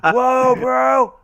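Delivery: high, loud surfer-stoner exclamation. Real, not acted. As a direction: stoner voice, amazed. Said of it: "why am I talking like a stoner".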